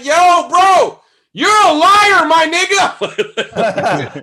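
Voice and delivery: high, loud, laughing call-out; triumphant shout. Retold or imitated. Comic catching the lying supervisor, laughing high shout. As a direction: shout him down with glee.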